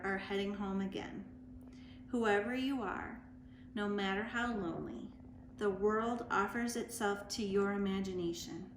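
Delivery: measured poem recitation, pausing between phrases; poetry reading. Acted. Reading a Mary Oliver poem to story time listeners, measured recitation. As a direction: read the poem gently, letting each line land.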